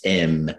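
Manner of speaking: M said as "em"; an Irish hesitation sound, M as "em"; Irish thinking vowel. Shown as a demonstration. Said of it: "the thinking vowel in Irish".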